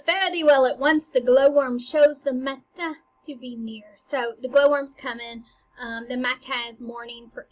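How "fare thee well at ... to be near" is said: loud, raised theatrical farewell; ghost's farewell. Acted. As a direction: call out a stage ghost's parting words. Ghost's farewell to Hamlet, acted.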